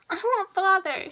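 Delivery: put-on high, loud little-girl wail; a small child's loud, drawn-out plea; child's cry. A narrator's reading. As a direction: cry out slowly for a parent. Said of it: "she cried".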